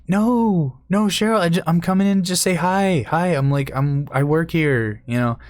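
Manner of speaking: high-pitched, pleading reassurance; placating visitor. Retold or imitated. Volunteer coaxing an angry resident at her door, high placating voice.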